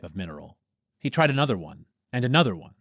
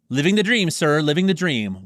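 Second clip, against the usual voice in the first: ironic cheer; 7 semitones higher, 8 dB louder than usual. Acted.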